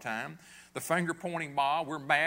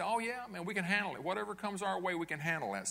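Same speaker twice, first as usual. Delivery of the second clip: higher, breezy overconfident brag; cocky boast; 3 semitones higher than usual. Acted. Prideful sons boasting to Jesus, mock cocky. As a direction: toss it off like nothing can touch you.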